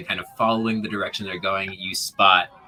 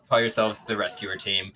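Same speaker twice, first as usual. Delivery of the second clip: usual speaking voice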